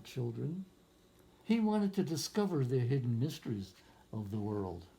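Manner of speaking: put-on reading a picture book aloud to children; story narration. A narrator's reading. Teacher reading a picture book to young students, storytelling voice. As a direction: lift the lines like a storyteller for a class.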